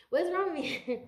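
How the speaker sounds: high, loud flustered squeal; flustered outburst. Real, not acted. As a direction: yelp it out, all flustered. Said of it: "I feel flustered".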